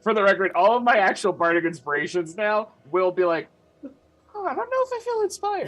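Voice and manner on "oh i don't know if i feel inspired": very high, hurried mock voice; mock uninspired response. Bard joking about future bardic inspirations, squeaky mock doubt. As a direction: squeak it out quickly as a joke.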